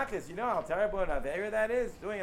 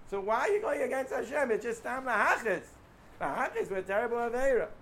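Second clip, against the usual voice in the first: rising rebuke; 4 semitones higher than usual. Real, not acted. Preacher rebuke peaks.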